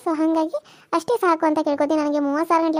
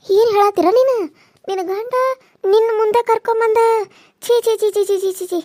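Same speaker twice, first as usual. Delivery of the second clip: higher and louder, appalled; shocked disgust; 4 semitones higher, 4 dB louder than usual. Acted. Aunt hears the husband brought his lover home, appalled. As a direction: recoil in outrage and disgust.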